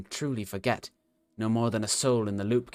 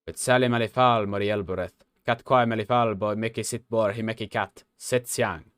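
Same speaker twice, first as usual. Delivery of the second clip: robot. Acted. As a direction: intone it like an ancient machine. Robot loops ancient recital.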